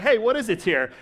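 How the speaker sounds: loud, high, mock-excited call of discovery; hammed-up shout of a crowd finding food; excited Israelites. Israelites finding manna, mock-excited cry.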